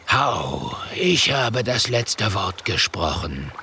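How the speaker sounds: slow, hushed oracle-like chief; solemn verdict. Acted. Der große Häuptling verkündet das Urteil. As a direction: proclaim with mystic gravity.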